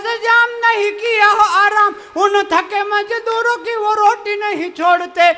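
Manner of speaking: slow, measured recitation; poem recital. Acted. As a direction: declaim the verse gravely. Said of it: "चार पंक्तियां पढ़ता हूँ".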